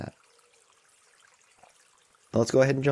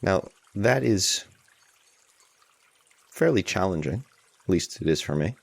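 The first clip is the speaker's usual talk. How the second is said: unhurried guidance with long pauses; guided meditation. Real, not acted. Teacher guiding a group to allow tension, unhurried guided meditation. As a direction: ease listeners into it, leaving space between phrases.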